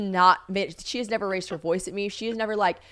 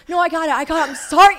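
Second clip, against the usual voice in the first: flustered apology; 7 semitones higher, 10 dB louder than usual. Retold or imitated. Retold flustered apology to scolding friend.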